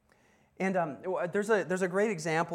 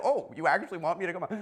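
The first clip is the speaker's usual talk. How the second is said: mild, laughing disbelief; quick, amused double-take; surprised; 3 dB louder, faster than usual. Acted. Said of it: "maybe was surprised by that".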